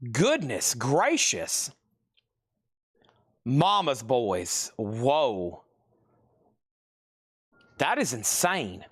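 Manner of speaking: breathless, winded; gasping between words; out of breath. Real, not acted. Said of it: "I'm out of breath".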